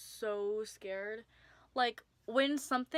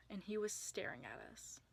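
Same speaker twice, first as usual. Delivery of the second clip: whispered and softer, eerie; spooky whisper; 8 dB quieter than usual. Acted. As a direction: drop to a whisper for the creepy reveal. Creepy reveal in story.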